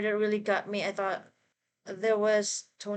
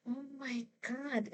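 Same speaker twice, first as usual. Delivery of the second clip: fangirl squealing; 6 semitones higher, 7 dB quieter, slower than usual. Real, not acted. Overwhelmed by casting reveal.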